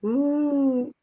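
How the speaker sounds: blanking mid-sentence, searching for the word; momentary mental blank, stalling; brain freeze. Real, not acted. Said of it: "brain freeze".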